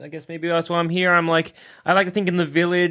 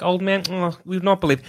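gossiping Australian; 2 semitones higher than usual. Pretend. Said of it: "be like".

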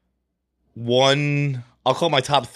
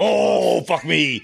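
surprised outburst; 4 semitones higher, much slower than usual. Real, not acted. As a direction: blurt it out in disbelief. Reacting to Blood Diamond pick.

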